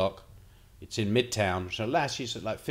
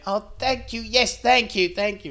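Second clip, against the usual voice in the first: put-on much higher, sweet little old lady thanks; grateful old lady; 10 semitones higher than usual. Frail old lady thanking the helpful stranger, high and sweet. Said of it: "But the old lady went".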